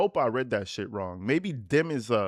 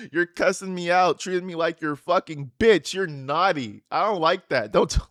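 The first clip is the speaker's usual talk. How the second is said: mock scolding; 4 semitones higher, 5 dB louder than usual. Mock-scolding daughter's texts.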